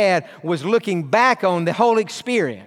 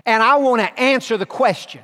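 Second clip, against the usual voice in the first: rising, louder fatherly proclamation; voice of God; 4 semitones higher, 3 dB louder than usual. Retold or imitated. Pastor voices God answering him, building proclamation. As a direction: speak as the sovereign King, building. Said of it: "He said".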